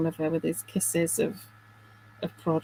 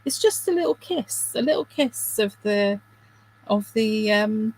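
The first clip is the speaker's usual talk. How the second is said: mock cooking-show phrase. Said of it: "I was just about to say".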